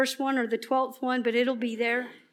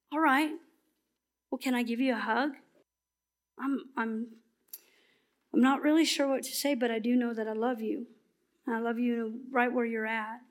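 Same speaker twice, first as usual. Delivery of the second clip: softer, tender, unhurried comfort; gentle reassurance; 4 dB quieter than usual. Acted. Preacher showing how to comfort a hurting friend, soft and tender. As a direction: hold them close with your voice.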